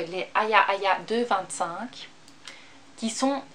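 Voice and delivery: words around a quick sip; talking between gulps of water; while sipping a drink. Real, not acted. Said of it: "je bois vite".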